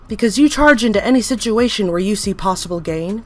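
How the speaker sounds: loud zealous tirade; fanatic's tirade; ranting. Acted. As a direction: preach down at the sinner. Entity rants at interviewer.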